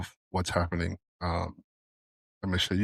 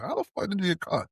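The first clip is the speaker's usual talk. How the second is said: incredulous; 10 semitones higher than usual. Real, not acted. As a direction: voice jumps high in disbelief. Incredulous rhetorical question.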